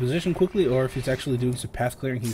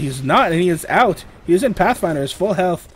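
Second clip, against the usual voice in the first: excited call; 4 semitones higher, 5 dB louder than usual. Real, not acted. Caster calls a sudden escape.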